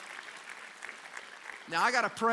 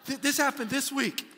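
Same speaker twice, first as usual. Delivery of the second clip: laughing; 6 semitones higher, 4 dB louder than usual. Real, not acted. Laughing at the story.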